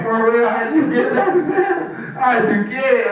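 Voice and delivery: slow, high, incredulous questioning; amazed admirer. Acted. Gym admirer asking how he got so beast, amazed.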